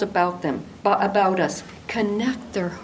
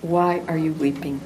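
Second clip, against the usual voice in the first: warm; 4 semitones lower than usual. Retold or imitated. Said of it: "he warmly asks".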